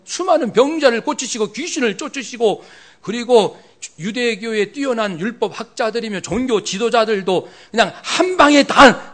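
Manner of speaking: high, agitated rebuke of his master; rough protest. Retold or imitated. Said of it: "이런 아주 거칠게 항의를 했거든요".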